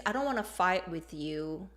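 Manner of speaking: mild, hesitant backing off; non-confrontational. Shown as a demonstration. Teacher voicing someone avoiding a fight, non-confrontational. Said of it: "it's non-confrontational".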